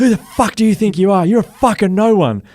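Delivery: high, loud mock abuse; imitating aggressive fans. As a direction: taunt like a heckler in the stands. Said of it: "pointing at me so aggressive and they're going".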